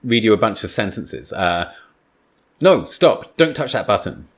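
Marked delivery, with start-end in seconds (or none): 2.6-4.3 quick sharp stop, raised pitch; urgent no, stop; urgent warning. Shown as a demonstration. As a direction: warn someone off the button. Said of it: "let's look at the difference".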